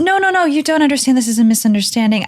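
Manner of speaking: flustered protest. Pretend. Lila protests to guards.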